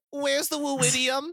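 loom and demand it slowly; hammy monster demand. Acted. Owl beast interrogation.

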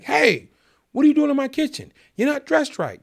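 high, loud telling-off; imitation of a man yelling, pitched well up; retold yelling. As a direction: yell a challenge at an intruder, imitating an angry boss. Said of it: "He's yelling at me".

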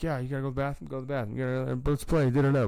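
high, lively game-leader voice; rallying the kids to play, high and excited; hyped kid games. Retold or imitated. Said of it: "we were like".

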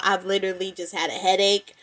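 stuffy nose, a little congested. Real, not acted. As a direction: talk with a blocked nose. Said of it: "That's why I sound a little congested".

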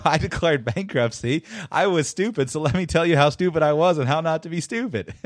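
lightly voiced mock confession, poking fun; mock Dave Ramsey. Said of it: "the whole thing is based upon, you know".

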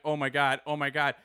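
starstruck. Retold or imitated. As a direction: lose your cool as a fan. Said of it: "I'm like".

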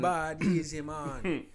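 put-on Jamaican accent. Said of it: "in a Jamaican accent".

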